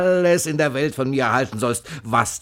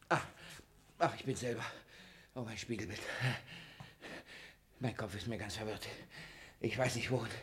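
lost in confusion; dazed murmur; 17 dB quieter, faster than usual. Acted. Miser muttering confused at his own reflection.

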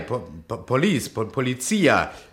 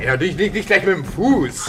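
urgent shout; 9 semitones higher, 6 dB louder than usual. Acted. Stops him kicking the wall.

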